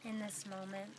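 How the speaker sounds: unhurried meditation guide with long pauses; guided meditation. Acted. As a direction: gently lead them inward, leaving long silences between phrases.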